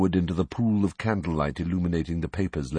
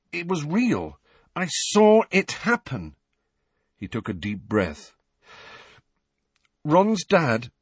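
put-on higher, urgent boy pleading; desperate Harry; 7 semitones higher than usual. Harry begs Dumbledore to understand, higher and urgent. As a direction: push the words out, desperate to be believed. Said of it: "his terror and his desperation".

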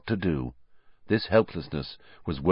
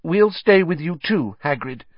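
fighting back tears; 8 semitones higher than usual. Acted. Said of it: "fighting back tears".

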